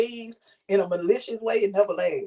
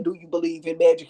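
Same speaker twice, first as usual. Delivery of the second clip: seductive line; 4 semitones lower than usual. Retold or imitated. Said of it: "make your voice sound a certain type of way".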